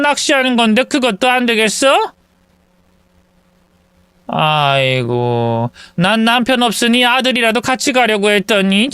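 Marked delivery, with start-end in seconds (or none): 4.3-8.9 lightly voiced old mother sighing; disappointed mother. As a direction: lament your plan falling through.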